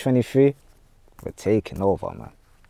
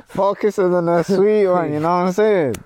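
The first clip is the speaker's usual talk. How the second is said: hyped up; 9 semitones higher, 5 dB louder than usual. Real, not acted. Hyped repeat of the title combo.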